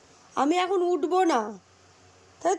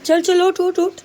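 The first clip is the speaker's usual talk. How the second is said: wake-up calls; 3 semitones higher than usual. Real, not acted. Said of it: "সকালবেলা রোজ আমার এরকম চেঁচাতে হয়".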